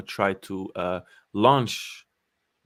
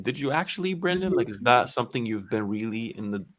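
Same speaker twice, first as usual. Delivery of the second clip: reporter voice. Pretend. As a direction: ask it like a TV reporter. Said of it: "I'm putting my reporter voice in".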